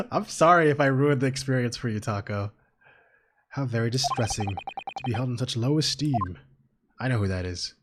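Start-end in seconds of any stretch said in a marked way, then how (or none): 3.5-6.4 slow, lightly voiced aloof gentleman; a hint of a haughty gentleman; character voice. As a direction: drawl it with mild disdain. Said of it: "I got the voice right already".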